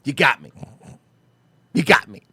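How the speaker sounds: Walter White. Retold or imitated. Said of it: "do the Walter White".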